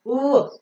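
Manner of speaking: Oo with rounded lips, as W; rounded W sound. Shown as a demonstration. Teacher leading into example words, rounded oo. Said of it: "Round in your lips".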